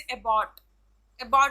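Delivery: अबॉट with the stress on बॉट; stress on last syllable. Shown as a demonstration. Teacher showing students last-syllable stress, अबॉट stressed on बॉट. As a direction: lean on the final syllable of अबॉट. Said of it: "last के syllable पे stress डाला".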